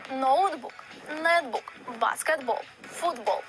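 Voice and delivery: ноутбук, нетбук, баскетбол, футбол each stressed on the final syllable; stress on the last syllable. Shown as a demonstration. Teacher demonstrating final-syllable stress on loanwords. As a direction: lean on the last syllable of every word. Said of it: "Усе на останній склад".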